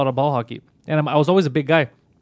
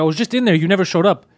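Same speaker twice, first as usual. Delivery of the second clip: furious, retold; 3 semitones higher, 4 dB louder than usual. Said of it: "now I'm furious".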